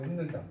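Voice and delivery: 웃는다 with ㅅ said as n, "un-neun-da"; nasal n closing the first syllable of 웃는다; pronunciation demo. Shown as a demonstration. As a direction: sound out 웃는다 as [운는다]. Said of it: "발음이 운이 되죠".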